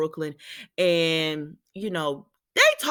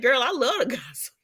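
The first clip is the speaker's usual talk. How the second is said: laughing reply; 5 semitones higher than usual. Real, not acted. Vlogger answering Lucy while laughing.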